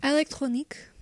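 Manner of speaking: "Electronique" with a hammed-up French accent. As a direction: say "Electronique" the French way, nasal vowels. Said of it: "Listen to me trying to speak French".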